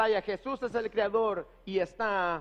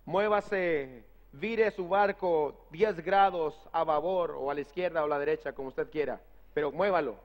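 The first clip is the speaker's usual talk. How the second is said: lower, firm order from a captain; commanding captain; 5 semitones lower than usual. Retold or imitated. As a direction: give the ship order with authority. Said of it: "con autoridad".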